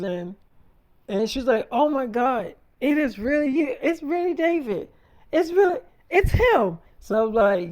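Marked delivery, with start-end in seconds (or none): 1.7-6.8 imitating a thrilled fan, pitched higher; mock star-struck gushing. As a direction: act amazed to meet your idol. Acting star-struck co-star meeting him.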